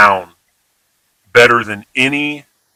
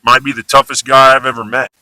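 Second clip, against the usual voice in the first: admiring example; faster than usual. Shown as a demonstration. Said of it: "positive context".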